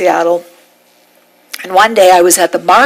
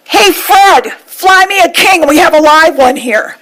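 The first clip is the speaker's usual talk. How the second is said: fishmonger calling out; 7 semitones higher than usual. Retold or imitated. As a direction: sing out the order to a coworker, hammed up. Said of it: "And he goes".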